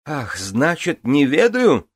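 high, loud shrieking retort; shrieked. Acted. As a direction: shriek it back, stung. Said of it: "взвизгнула Гвенвифор".

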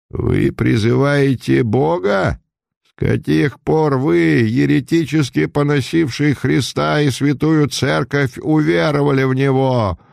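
judge him coldly from above; a Jesuit judge rebuking the condemned count, harsh and stern; stern accusing voice. A narrator's reading. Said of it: "раздался резкий суровый голос".

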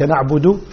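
نعبد ending in a full "-du"; clear damma. Shown as a demonstration. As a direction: sound out the final u of نعبد. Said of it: "ضمة الدال". (ضمة واضحة على دال نعبد)

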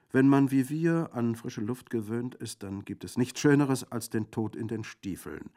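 high, loud, declaiming bandit; spirited bandit. A narrator's reading. Bandit defending his dangerous trade, spirited. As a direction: proclaim it with bravado. Castriconi's speech in story.

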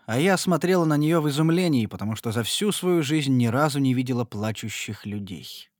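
plain reading voice

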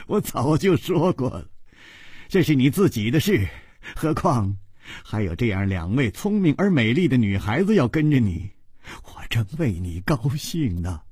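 unhurried, mildly teasing ease; leisurely amusement. Acted. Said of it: "楚留香悠悠地笑着说". (悠悠地笑着说)

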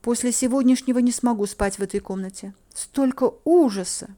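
high plaintive distress; put-on frightened lament; feigned horror. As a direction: play up the horror. Playing the frightened victim.

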